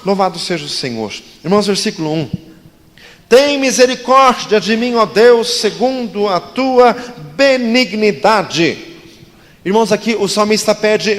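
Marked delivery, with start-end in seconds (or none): 3.3-5.6 the psalm cried out high and loud; strong intonation. Shown as a demonstration. The pastor reads the psalm aloud as a cry. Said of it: "lemos todos juntos com entonação forte". 5.6-8.8 crying out. Acted. Reading the psalm aloud as a cry.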